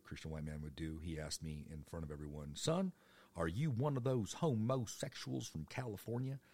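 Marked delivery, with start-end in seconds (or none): 2.5-6.4 loud, higher-pitched Southern coach; confronting coach. Retold or imitated. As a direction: call the boy out as a stern coach. Coach confronts him before team.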